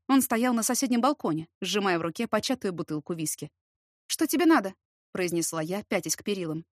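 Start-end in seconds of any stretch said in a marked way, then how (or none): 4.1-4.7 sharp challenge. Acted. Heroine snaps at drunk neighbour.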